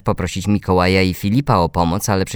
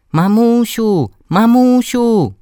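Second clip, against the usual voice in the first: put-on high-pitched little girl calling out; 5 dB louder, slower than usual. A narrator's reading. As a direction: call to mummy in a loud, drawn-out child's voice. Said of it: "zawołała nagle mała dziewczynka".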